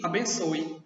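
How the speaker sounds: "abençoe" with the final e sounded as an i. Shown as a demonstration. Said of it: "ele tem som de quê? De I".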